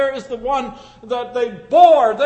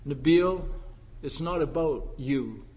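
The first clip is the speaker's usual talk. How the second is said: gentle voice of God; 6 semitones lower, 7 dB quieter than usual. Retold or imitated. God speaks to Nabil.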